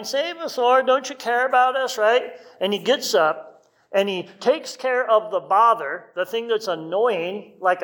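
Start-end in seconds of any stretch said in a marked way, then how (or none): 0.0-2.0 high, desperate plea of the disciples; crying out. Retold or imitated. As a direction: cry out as if the boat is sinking. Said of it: "The disciples all crying".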